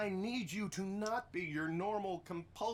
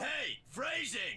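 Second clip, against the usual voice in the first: insistent objection; 3 semitones higher, slower than usual. Acted. Colleague interrupts an innuendo a second time, insistent. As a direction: call it out slowly, demanding notice.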